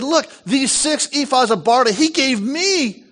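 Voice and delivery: high-pitched, animated announcement; excited showing off. Acted. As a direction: act out proudly showing a gift. Voicing Ruth showing off the barley.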